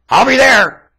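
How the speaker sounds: high, loud triumphant cry. Acted. Preacher declaring he will meet Jesus, high and triumphant. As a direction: proclaim it in triumph.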